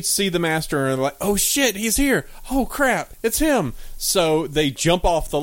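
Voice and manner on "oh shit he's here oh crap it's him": high, panicked appliances; mock panic. Appliances spotting the master, in high mock panic. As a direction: yelp it out in high mock alarm.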